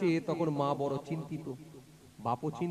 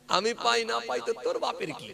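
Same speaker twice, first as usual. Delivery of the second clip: higher, harder angry snap; angry retort; 6 semitones higher, 3 dB louder than usual. Retold or imitated. Angry fisherman scolding the caller, in a higher, sharper voice. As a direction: throw the words back at him in anger. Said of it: "দিয়ে বলছে".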